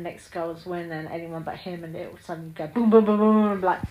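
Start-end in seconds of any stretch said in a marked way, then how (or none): none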